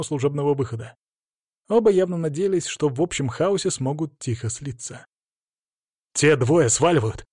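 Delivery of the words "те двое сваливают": shouting. Acted. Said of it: "крикнул я ближайшему омоновцу".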